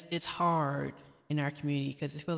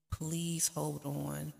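pleading; much slower than usual. Real, not acted. Pleading with struggling viewers.

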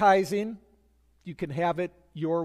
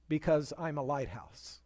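quiet reveal; 3 semitones lower, 6 dB quieter than usual. Retold or imitated. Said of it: "final transmission was chilling".

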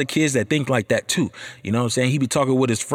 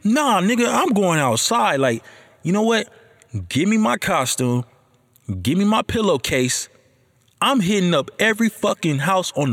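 put-on kid hyped for Halloween; 4 semitones higher than usual. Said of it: "I was like".

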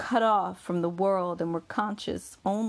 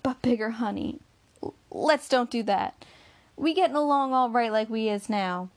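a gentle higher woman's voice, begging him to stop; pleading Bessie; 4 semitones higher than usual. Acted. Bessie begging Bigger to drop the plan, lightly voiced plea.

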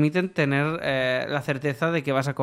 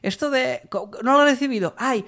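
higher, put-on voice of a client dodging payment; excuse-making client; 5 semitones higher than usual. Client excusing a lost invoice to the freelancer, put-on higher voice. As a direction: play the client pretending the invoice got lost, in a Catalan accent. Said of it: "Y entonces dice".

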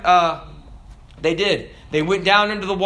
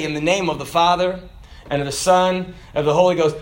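ritual baptism formula; 3 semitones lower, faster than usual. Shown as a demonstration. Preacher reciting the baptism words at the water, solemn and low. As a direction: recite it like you dunk someone. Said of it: "Now, I'll say".

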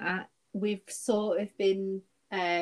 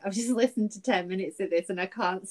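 quoting a Reddit reply through rising laughter; laughing while quoting; 5 dB louder than usual. Retold or imitated. Friend retelling a funny Reddit comment, laughing through the quote. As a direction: read the comment out, cracking up as you go. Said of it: "the reply was from an Australian guy".

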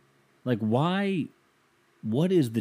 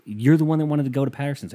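higher, exaggerated accusing mimicry; imitated point-scoring tone; 4 semitones higher, 4 dB louder than usual. Throwing his girlfriend's words back at her, mock accusing. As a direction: parrot the accusation as if keeping score. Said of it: "this is, like, a scoreboard thing".

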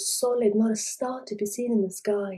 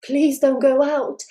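pleading; 4 semitones higher, 4 dB louder than usual. Acted. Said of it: "she kept saying".

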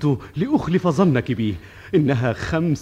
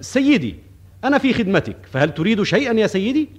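polite shopkeeper; 5 semitones higher than usual. Retold or imitated. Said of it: "وبادرته بالكلام".

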